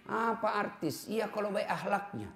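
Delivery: hushed preacher's warning; quiet aside. Acted. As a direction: drop the voice to a near hush. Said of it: "sudden drop in volume".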